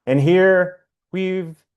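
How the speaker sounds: emphatic line openings, long pauses between phrases; poetry reading. Acted. Poet reading a song-inspired poem to an online audience, poetry reading. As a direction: recite it line by line, leaving space after each.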